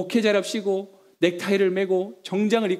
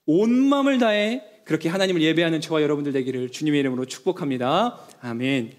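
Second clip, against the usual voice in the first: blessing; 5 semitones lower than usual. Acted. Pastoral blessing.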